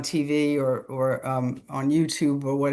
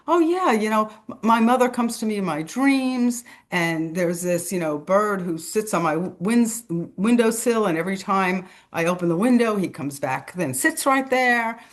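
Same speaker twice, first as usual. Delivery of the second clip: 1 high excited quote; 4 semitones higher than usual. Retold or imitated.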